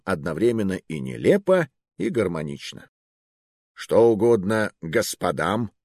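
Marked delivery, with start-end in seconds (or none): 3.7-5.7 slow, sneering politeness; condescending clerk's welcome; disdainful. Acted. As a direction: greet them as if they don't belong here. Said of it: "было произнесено тоном".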